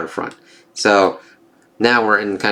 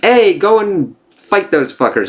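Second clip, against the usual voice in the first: higher, hammed-up demagogue egging the crowd on; mock rally rabble-rouser; 10 semitones higher than usual. Mocking the Nazi speaker, a hammed-up higher rabble-rousing call. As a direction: fake rousing call to fight. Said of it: "and be like".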